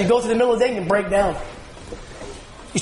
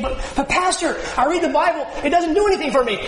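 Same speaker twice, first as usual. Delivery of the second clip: higher, pleading voice of a doubter; whiny doubting churchgoer; 6 semitones higher than usual. Retold or imitated. Preacher mimics a congregant whining he gets nothing from the Bible. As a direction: play the skeptic complaining to the pastor. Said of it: "And you're saying".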